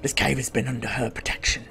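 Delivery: soft, hushed storyteller elf; quest-giver voice. Acted. Elf telling the player the queen's story, hushed. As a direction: murmur the lore like a secretive elf. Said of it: "Sorry, that was me. I don't know why I talk like that".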